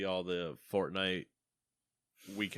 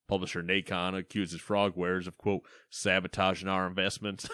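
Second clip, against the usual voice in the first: put-on southern accent. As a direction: let a Southern accent slip in. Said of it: "why did I start getting southern?".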